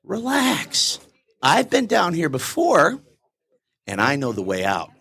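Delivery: calm reassurance. Retold or imitated. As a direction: settle him down gently. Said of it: "He goes".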